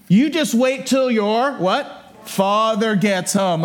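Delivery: slow, high mock threat; mock-mad mom. Mom warning mocking son about father, mock mad. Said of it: "she's like".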